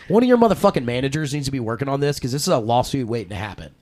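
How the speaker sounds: yelling at security. Retold or imitated. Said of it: "I started screaming to security".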